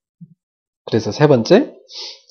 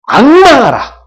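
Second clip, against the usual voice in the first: high, loud burst; emphatic shout; 12 semitones higher, 11 dB louder, much slower than usual. Real, not acted. Preacher answering how to look to God, emphatic shout. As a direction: hammer the answer out at full voice.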